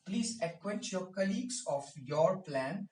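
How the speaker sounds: very slow, each word laid out plainly; slow model sentence. Shown as a demonstration. Teacher dictates the example sentence slowly to the class. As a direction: dictate it slowly so students can follow. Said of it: "क्या कहा मैंने?".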